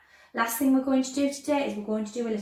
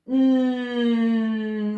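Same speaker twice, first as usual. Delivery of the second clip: long, louder droning hum; aeroplane hum; 6 dB louder than usual. Shown as a demonstration. Teacher giving a clue to the song, aeroplane hum. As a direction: drone like an aeroplane on one held note. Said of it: "we sound like an aeroplane".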